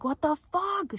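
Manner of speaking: high-pitched mock yell; squealed retold protest. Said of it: "She was, like, yelling".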